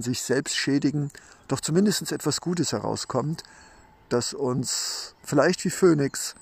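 rough, just-woken morning voice; sleepy husky voice. Real, not acted. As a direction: speak rough and drowsy, barely awake. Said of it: "rauen und noch etwas verschlafenen Stimme".

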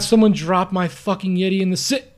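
put-on loud, high drunken whine; mock drunk complaint. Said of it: "He's like".

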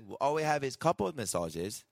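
bad Mexican accent. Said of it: "that was a terrible fucking Mexican".

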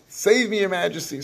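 imitating a high pleading cry; mock scream for help. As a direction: call out to get his attention. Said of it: "and you scream out".

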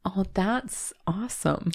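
soft slow whisper. Retold or imitated. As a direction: breathe it out in awe. Whispered reaction retold.

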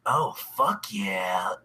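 low whispered moan of delight; moan of pleasure. Real, not acted. Savoring the soda, low whispered moan. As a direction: breathe it out like the taste is heavenly.

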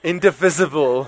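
"Indivisible" said as in-di-VIZ-ible; corrected pronunciation. Shown as a demonstration. Preacher practicing the congregation's correction, short-i pronunciation. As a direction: give "Indivisible" a short i in VIS. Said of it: "Thank y'all for correcting my speech".

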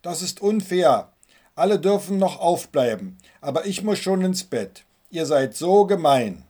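put-on whiny crying boy. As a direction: whine it out like a boy denied a late bedtime. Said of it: "fing er sogar an zu weinen".

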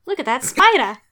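jokey Australian call at a huge spider; mock Australian. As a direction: shout it like a casual Aussie spotting a giant spider. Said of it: "they're just like".

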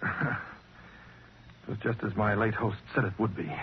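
slow, hushed closing line; murmured with dark satisfaction; quiet grim irony. Acted. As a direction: let the irony settle softly. Survivor's quiet grim ending.

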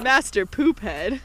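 slow, giggling nickname; drawn-out name broken by giggles; laughing. Real, not acted. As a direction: laugh through the silly name. Joking nickname amid laughter.

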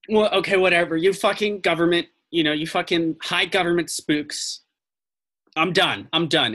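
lightly acted exasperated park ranger; fed-up ranger. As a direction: brush them off with contempt. Ranger gives up in disgust.

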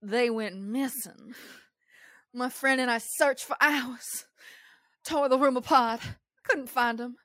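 a hint of Southern Belle, stretching the words; Southern Belle accent. Reading a hotel ghost story aloud in a light Southern Belle accent. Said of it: "I'm doing this one in an accent".

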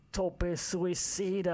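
excited wrestling commentator, high and drawn out; Mauro Ranallo. Retold or imitated. Wrestling fan imitating a missed commentator, high drawn-out call. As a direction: stretch the move name into a big announcer call. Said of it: "I miss Mauro Ranallo".

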